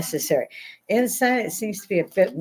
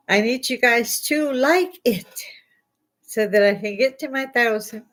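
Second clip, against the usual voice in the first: whispered plea; 5 semitones higher than usual. Real, not acted. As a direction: whisper it like a secret ask.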